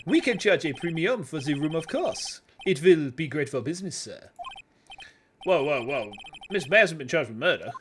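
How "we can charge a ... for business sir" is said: a hint of a French hotel clerk's accent. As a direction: welcome him with light French flair. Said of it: "he's supposed to be French".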